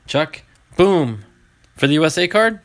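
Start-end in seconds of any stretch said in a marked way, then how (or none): 0.8-1.2 retold boom. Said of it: "What was the boom for there".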